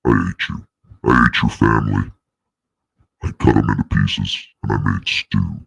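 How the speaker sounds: mock villain. Villain monologue through voice changer.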